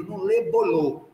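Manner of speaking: "lebolou" with l for r, slow; slow mocking repeat of "lebolou" with an l, as the little boy said it; child's mispronunciation. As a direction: drag out "lebolou" with an l sound instead of r. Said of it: "Ele não sabe nem falar direito".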